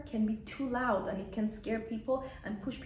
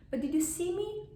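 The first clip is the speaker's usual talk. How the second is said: normal talking voice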